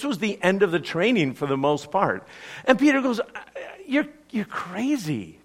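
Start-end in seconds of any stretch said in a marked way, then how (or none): 3.9-5.4 laughing. Retold or imitated. Peter laughs off Jesus' warning.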